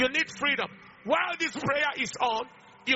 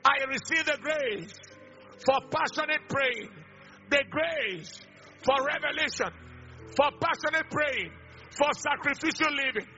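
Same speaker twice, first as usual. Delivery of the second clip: emphatic, raised preacher's declaration; fervent prayer in short, sustained phrases; forceful prayer; 3 semitones higher than usual. Real, not acted. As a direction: lead the crowd in prayer, phrase by phrase. Leads congregation in prayer.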